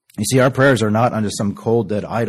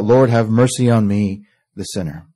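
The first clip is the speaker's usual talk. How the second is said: crying out. Acted. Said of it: "bankrupt sinner cries out".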